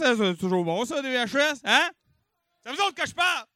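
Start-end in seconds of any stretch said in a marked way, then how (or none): 2.6-3.5 high-pitched call to the crowd; mock scolding. Host prodding silent audience, high mock scolding. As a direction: demand an answer from the room.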